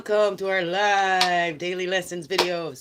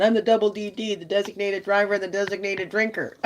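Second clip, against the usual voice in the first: tipsy bar boast; 4 semitones higher, 3 dB louder than usual. Retold or imitated. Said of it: "here I am at the bar going".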